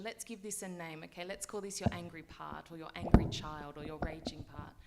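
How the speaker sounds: ordinary talk, nothing marked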